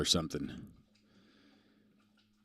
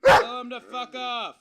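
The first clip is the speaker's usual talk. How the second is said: high, squeaky voice egging the dog on; squeaky dog-prompting voice; 10 dB louder than usual. Pretend. Streamer goads his barking dog to tell off chat, high and squeaky. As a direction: hype the dog up in a silly high voice.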